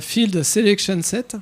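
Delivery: slow, hammed-up English accent on the words; exaggerated English accent. Real, not acted. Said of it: "avec le super accent anglais". (avec un accent anglais exagéré)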